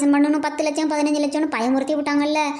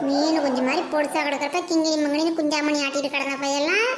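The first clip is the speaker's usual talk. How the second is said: put-on laughing while teasing him about his childhood; mocking chuckle. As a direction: poke fun with a chuckle. Old woman mocks grown grandson. (குழந்தைப் பருவத்தை நினைத்து சிரிப்புடன் கேலி)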